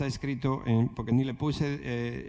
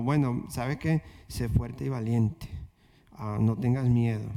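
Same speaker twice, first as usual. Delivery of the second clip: lower, shrugging, as if it hardly matters; half-hearted, limp; 3 semitones lower than usual. Shown as a demonstration. Pastor mocking a weak, uncommitted way of speaking. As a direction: say it like you don't really mean it. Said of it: "no es con una voz como".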